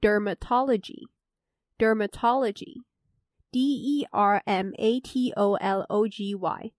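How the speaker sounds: each word said twice, then spelled out slowly letter by letter; slow vocabulary dictation. Shown as a demonstration. Host reviewing vocabulary for listeners, slow careful dictation. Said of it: "那最后就是dermatology".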